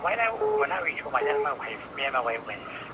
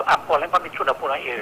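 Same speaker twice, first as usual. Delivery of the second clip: louder, speaking up clearly; to someone hard of hearing; 3 semitones higher, 6 dB louder than usual. Real, not acted. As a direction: raise your voice for the caller. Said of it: "Can you speak up".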